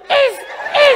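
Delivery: high mouth-made squirts; short hissed squirt noises; water-gun squirt. Acted. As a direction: imitate firing a water pistol.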